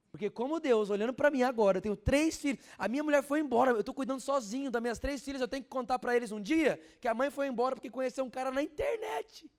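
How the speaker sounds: loud, high revival preaching; full-force pulpit preaching; fiery preaching. Acted. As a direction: preach it out to the whole church.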